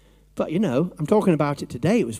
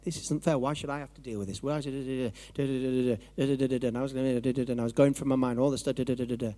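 whiny complaining; 4 semitones lower, 5 dB quieter, faster than usual. Retold or imitated. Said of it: "I was like".

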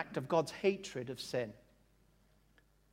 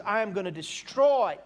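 mildly thundering, louder on the threat; lightly voiced wrathful announcement; parody God; 2 semitones higher, 5 dB louder than usual. God threatening the people to Moses, mock wrath. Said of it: "God says to Moses".

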